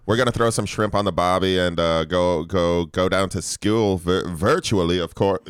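uncertain put-on Australian accent. Host explaining the school news, shaky attempt at Australian accent. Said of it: "Now you're doing Australian".

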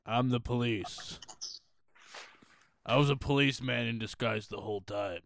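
lightly voiced dramatic reveal; mock geisha cop. Geisha revealing she is police, lightly voiced reveal. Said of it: "And then she lowers the".

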